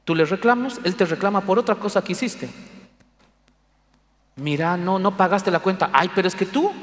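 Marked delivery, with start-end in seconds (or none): 4.4-6.7 quarreling couple. Retold or imitated. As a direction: play both spouses bickering back and forth.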